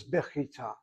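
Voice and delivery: bechita with a throaty KH, not a K; soft kaf. Shown as a demonstration. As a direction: say bechita as "bikh-ee-TA". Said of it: "familiar with the K sound".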